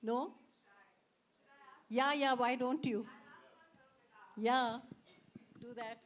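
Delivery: ordinary talk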